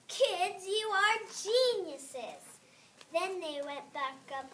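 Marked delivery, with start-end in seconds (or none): 0.1-2.4 proud mom voice. Acted. Mom praises kids in story.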